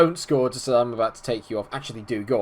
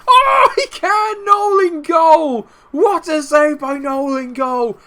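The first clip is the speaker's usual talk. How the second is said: a screaming, much higher and louder call of the save, drawn out slow; wild shout; 14 semitones higher, 6 dB louder, much slower than usual. Real, not acted. Manager screaming as his keeper saves the penalty. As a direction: yell it like the save of the season. Goalkeeper makes a big save.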